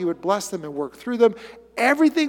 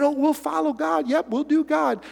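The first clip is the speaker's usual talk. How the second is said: glib Israelites; 6 semitones higher than usual. Retold or imitated. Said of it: "They said".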